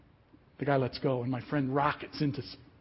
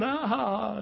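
mock holler; 6 semitones higher than usual. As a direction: imitate someone hollering while laughing. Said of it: "he's hollering".

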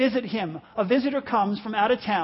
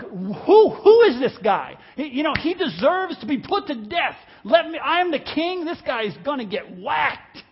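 loud, furious retold outburst, much louder; outraged king; 4 semitones higher, 5 dB louder than usual. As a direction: bellow it like an offended king demanding a death. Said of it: "David is outraged".

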